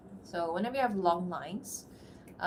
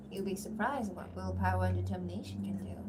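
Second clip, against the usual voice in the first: flirty. Acted. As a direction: lightly tease him with the line. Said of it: "Kind of flirty there".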